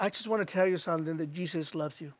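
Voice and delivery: soft, low, falling away gently; gentle reassurance. Retold or imitated. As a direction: retell it as a quiet, tender reassurance. Retold reassurance to distressed woman.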